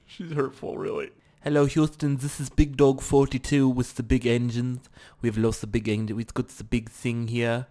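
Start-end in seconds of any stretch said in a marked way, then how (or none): 1.4-7.7 a hint of mock Australian; wobbly, half-hearted Australian; slightly Australian accent. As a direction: put on a loose Australian radio-call accent. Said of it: "a little bit Australian".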